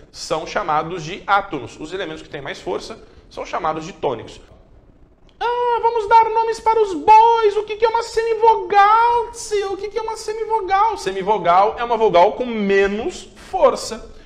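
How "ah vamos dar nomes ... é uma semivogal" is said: silly high voice asking the teacher; high playful voice. Acted. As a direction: pipe up like a cartoon kid asking.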